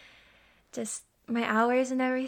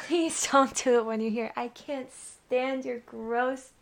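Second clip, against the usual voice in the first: usual speaking voice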